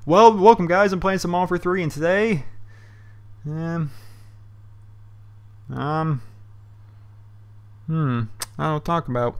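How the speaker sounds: bright-start intro fizzling into lost ums; mock brain fart. YouTuber acting out a botched video intro, blanking. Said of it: "completely have a brain fart".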